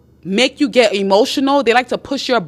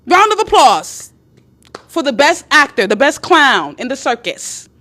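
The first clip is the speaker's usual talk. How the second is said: mock announcer praise; 4 semitones higher, 3 dB louder than usual. Woman applauding her man's show, mock admiring. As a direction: proclaim it grandly, easing down at the end.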